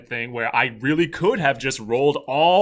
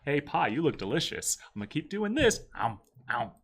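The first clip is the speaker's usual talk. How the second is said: Homer Simpson; 4 dB quieter than usual. Retold or imitated. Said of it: "And then Homer told the pie".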